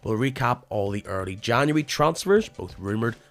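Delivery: scripted show opener with measured dramatic pauses; podcast intro read. Real, not acted. Host welcomes listeners to the Irish League podcast, scripted intro read. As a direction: read it as a sports podcast intro, swinging the tune up and down.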